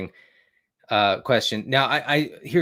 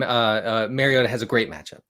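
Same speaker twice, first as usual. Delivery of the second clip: normal talking voice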